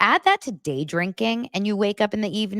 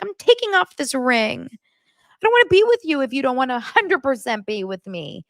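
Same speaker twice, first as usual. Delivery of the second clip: higher mock-indignant delivery; fiancée's ultimatum; 8 semitones higher, 4 dB louder than usual. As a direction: imitate her threatening to walk out. Retold fiancée's ultimatum in a quarrel.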